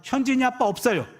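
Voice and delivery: a hint of a child's matter-of-fact answer; young daughter on phone. Daughter tells the caller dad is out, lightly voiced child. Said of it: "그럼 우리 딸애가".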